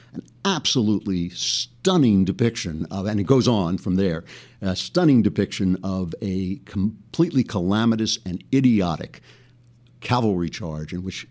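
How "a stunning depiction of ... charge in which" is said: ordinary talk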